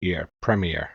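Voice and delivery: premier as PREM-ee-er; sounding out IER. Shown as a demonstration. American working out British usage, "premier" as PREM-ee-er. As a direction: give "premier" its full ending after "ear". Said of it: "you pronounce the, the I E R".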